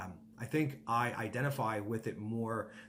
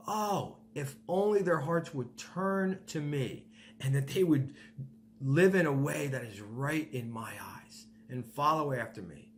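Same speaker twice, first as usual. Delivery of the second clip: a touch higher, yearning plea; longing God; 3 semitones higher than usual. Acted. God yearning for his people's hearts, a longing plea.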